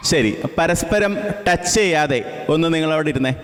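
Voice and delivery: teacher calling out to settle the class. Real, not acted. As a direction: call it out so the back rows hear. Teacher calls instruction to class.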